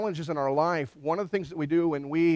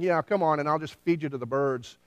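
lightly voiced taunt; Goliath's trash talk. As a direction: imitate a casual challenge, stress on COME. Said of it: "as Goliath is saying".

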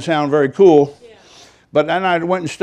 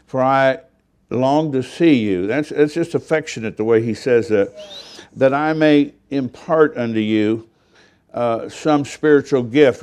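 scripture reading. Acted. Reads scripture slowly.

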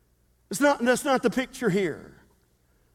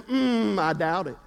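mock doubtful mutter, lower; skeptical; 4 semitones lower than usual. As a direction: hum then doubt it dryly. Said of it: "most of them said".

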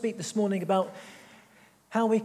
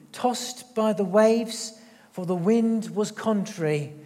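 scripture reading. Acted. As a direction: read the storm passage to the congregation with weight. Preacher reads the Bible passage.

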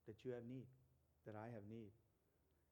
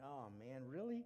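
mock disbelief. Voicing listeners' disbelief.

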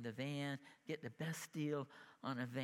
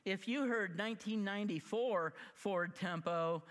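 louder, higher, indignant retort; retold angry comeback; 6 semitones higher, 4 dB louder than usual. Standing up to the finance guy, indignant and loud. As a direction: fire it back at the dealer, done deal.

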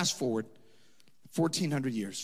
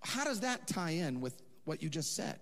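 confused what; 6 semitones higher, 5 dB quieter than usual. Retold or imitated. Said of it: "I'm like".

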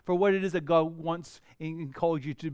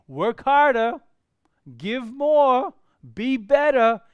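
demanding commands; 6 semitones higher, 8 dB louder, slower than usual. Retold or imitated. Preacher voicing demanding expectations.

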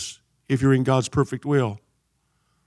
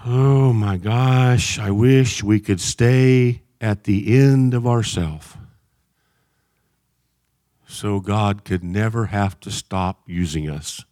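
lower, slow, heartfelt wish; earnest longing; 5 semitones lower, much slower than usual. Real, not acted. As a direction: sigh it out sincerely. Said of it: "heartfelt wish".

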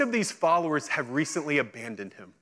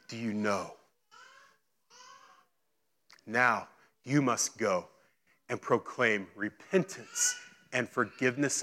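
low, measured, earnest voice; softened, lowered commissioning voice; solemn declaration; 4 semitones lower, 4 dB quieter than usual. Acted. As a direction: reveal who you are, quietly and surely. Jesus solemnly declares himself, commissions followers.

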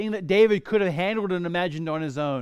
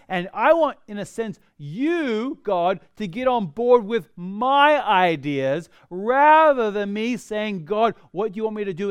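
eager pleading; 3 semitones higher, 6 dB louder than usual. Retold or imitated. Voicing eager believer to God.

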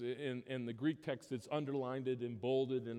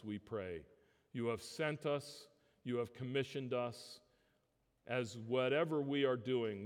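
closing prayer; 4 semitones lower than usual. Acted. Pastor leading the congregation in closing prayer, earnest prayer voice. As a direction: pray over the congregation, fading into the amen.

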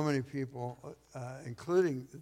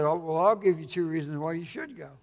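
louder, higher, building to the punchline; emphatic punchline; 4 semitones higher, 8 dB louder than usual. Retold or imitated. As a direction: land the punchline with force. Mother's punchline in joke.

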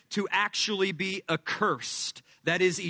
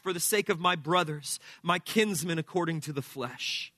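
scripture reading. Acted. Reads the scripture passage.

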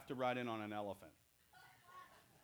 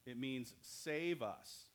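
slow explaining; much slower than usual. Shown as a demonstration. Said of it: "What does Hosanna mean?".

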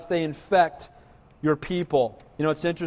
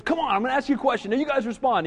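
rock star crowd work; 5 semitones higher, faster than usual. Retold or imitated. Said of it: "gets ready, he goes".

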